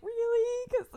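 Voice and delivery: very high, whiny imitation of tears; hammed-up tearful doubt, ending in a laugh; mock crying. Crying daughter answering her mom's comfort, mock tearful squeak. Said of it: "Like, I'm crying".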